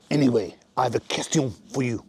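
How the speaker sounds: put-on French accent; comic Frenchman posing a question, French accent. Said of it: "French accent".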